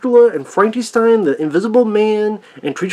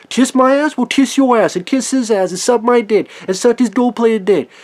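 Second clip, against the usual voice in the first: mock insult; 5 semitones higher than usual. Mock telling haters off.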